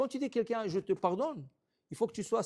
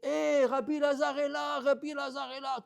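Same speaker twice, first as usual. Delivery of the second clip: higher, louder call to the crowd; excited calling out; 8 semitones higher, 4 dB louder than usual. Retold or imitated. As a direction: call out as if you just spotted him.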